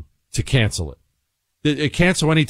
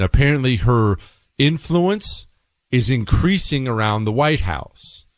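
ordinary delivery

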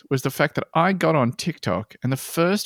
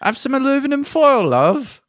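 higher-pitched mock Americanism; mocking impression; 10 semitones higher, 4 dB louder than usual. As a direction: put on the wannabe American, pitched up. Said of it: "walking around being like".

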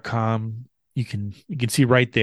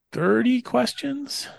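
drawn out; 11 semitones higher, 3 dB quieter, much slower than usual. Real, not acted. Proud reveal, drawn out.

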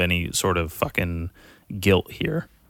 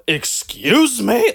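high, slow, louder offended "Excuse me?"; mock snobby outrage; 6 dB louder, much slower than usual. Mocking snobs who sneer at fun, high slow indignant. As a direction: drag it out like a scandalised snob. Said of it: "they're just like".

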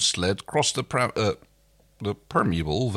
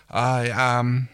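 regal voice; 2 semitones higher than usual. Acted. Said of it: "his most regal voice".

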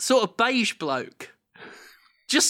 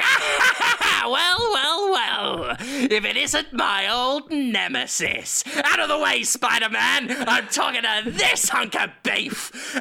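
higher, slow, gloating villain voice with a laugh; hammed-up Green Goblin villain; 7 semitones higher, slower than usual. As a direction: gloat over your old nemesis. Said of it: "he's like".

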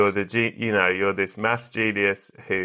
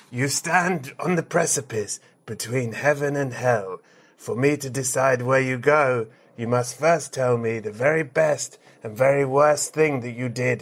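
Judgment Day host. Acted.

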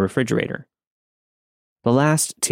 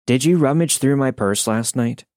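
higher-pitched, restrained question; calm questioning partner; 4 semitones higher than usual. A narrator's reading. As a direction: lightly voice the partner asking, calm but forceful. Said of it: "she asked calmly at first".

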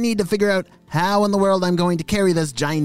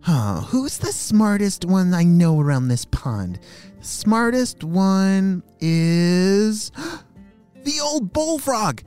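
high, gasping little frog idea; a young frog struck by a bright idea; excited frog voice; 6 semitones higher than usual. Acted. Frog thinks, gasps with idea.

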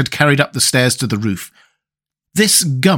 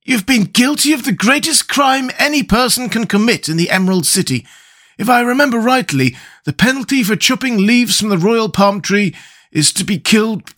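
higher, alarmed straw man voice; Scarecrow voice; 8 semitones higher than usual. A narrator's reading. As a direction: warn him gravely, lightly voiced. Scarecrow scolding in story.

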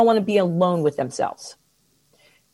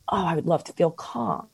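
softer, gentle hopeful voice; calm wish; 3 semitones lower, 7 dB quieter than usual. Pretend. Coach modeling the better step, softly calm. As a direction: ease into a quiet hopeful tone. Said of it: "a step above to say".

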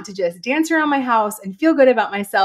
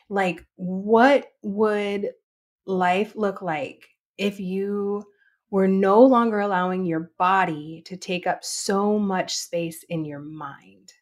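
slow, weighty question with pauses; slow and deliberate; slower than usual. Real, not acted. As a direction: let each phrase land slowly. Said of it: "My number one food for thought".

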